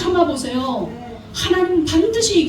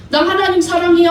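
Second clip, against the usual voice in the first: higher, louder, sing-song mock of a churchgoer's boast; mock pious claim; 5 semitones higher, 4 dB louder than usual. Preacher mocking a hypocritical believer, higher and louder. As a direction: parody the empty pious "사랑해요". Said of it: "하면서 말씀은 안 읽고".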